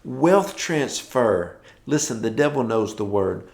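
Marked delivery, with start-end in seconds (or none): 0.0-1.6 high, slow sarcastic mock scoff. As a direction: scoff at it like a skeptic. Mocking a doubter's reaction.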